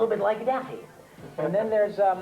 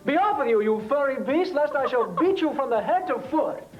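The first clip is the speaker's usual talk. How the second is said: put-on pompous old-fashioned hero, a bit higher; Francis X Bush Lad voice; 5 semitones higher than usual. Shown as a demonstration. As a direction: declaim like a storybook knight. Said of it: "but he talks like this and says".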